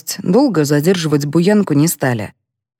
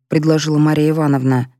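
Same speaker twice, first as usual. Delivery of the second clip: ordinary delivery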